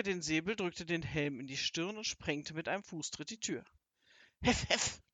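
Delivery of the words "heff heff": high, sharp yaps; imitated high barking; yapping dog. A narrator's reading. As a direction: yap twice like a dog. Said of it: "kläffte Wasti".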